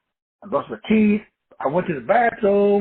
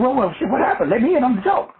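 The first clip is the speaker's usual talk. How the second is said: curious wife; 6 semitones higher than usual. Retold or imitated. Wife wants in on the joke.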